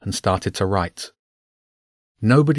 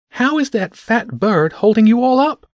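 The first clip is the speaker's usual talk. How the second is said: high, raised, incredulous question; amazed; 13 semitones higher, 5 dB louder than usual. A narrator's reading. Mister E gapes at the flying bird, amazed. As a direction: marvel loudly in a high voice.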